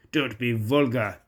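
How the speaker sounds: mildly huffy rebuke; a touch of offended dignity. Acted. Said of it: "said Gordon huff-, huffily".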